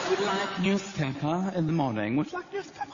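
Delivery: put-on lightly accented receptionist, rising up on newspaper; broken-English foreign accent. Receptionist offering a newspaper, in a light foreign accent. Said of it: "She had an accent".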